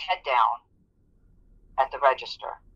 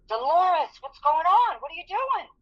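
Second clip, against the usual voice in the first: higher, anxious boss asking what's wrong; worried supervisor; 13 semitones higher than usual. Retold or imitated. Supervisor Denise asks her frozen coworker what's wrong, alarmed. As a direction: call her name, alarmed and puzzled.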